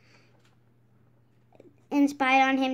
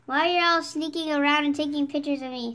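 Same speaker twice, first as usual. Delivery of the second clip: demanding; 4 dB louder than usual. Acted. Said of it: "Sandy demanded".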